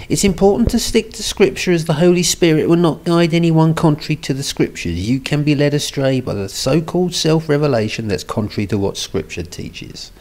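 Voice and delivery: imitated woman, starting high and sinking towards the end; put-on woman's voice. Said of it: "I'm gonna read it in a woman's voice".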